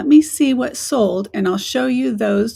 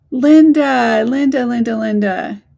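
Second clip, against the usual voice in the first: calling out; 6 dB louder than usual. Real, not acted. Calling out to a viewer.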